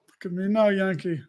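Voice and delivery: put-on half-hearted movie pirate accent; bad pirate accent. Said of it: "That was the worst accent ever".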